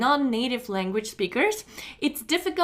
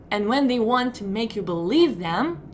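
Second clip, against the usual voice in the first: measured, emphatic build to a pause; TV presenter delivery; 3 dB louder than usual. Shown as a demonstration. Teacher imitating presenters who want belief, measured delivery. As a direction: make "believe" weighty, then hold a pause. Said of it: "try to say like they do".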